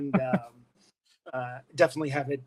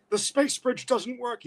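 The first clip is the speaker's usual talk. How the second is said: slow, higher, dispassionate robot report; Shockwave; 9 semitones higher, slower than usual. Acted. Actor voicing Shockwave giving bad news, dispassionate and slow. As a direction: state the failure logically, drawn out. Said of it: "Shockwave is like".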